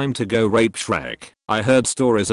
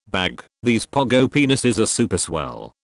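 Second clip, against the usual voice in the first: Drew Pickles impression. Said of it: "here's my impression of Drew Pickles".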